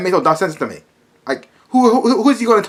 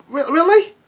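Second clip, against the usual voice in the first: disbelieving; 11 semitones higher than usual. Real, not acted. Disbelief at the main villain.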